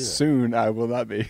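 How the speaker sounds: slow, put-on grand voice. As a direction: say it slowly, with grandeur. Mock grand reply.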